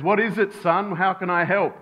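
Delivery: patient question from an obliging dad; helpful father. Acted. Father answers his son's first call, mildly voiced helpfulness. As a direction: answer the child willingly, mildly acted. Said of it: "wanting to understand what his son's asking".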